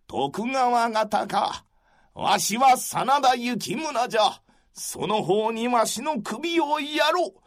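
put-on creaky wise old man. Calm resigned warrior voice.

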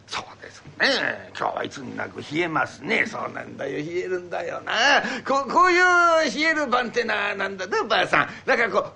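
lightly voiced old man hinting around; wheedling old man. Old man hinting to his wife that he wants a drink, lightly voiced. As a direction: coax without saying it outright.

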